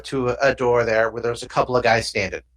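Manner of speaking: normal talking voice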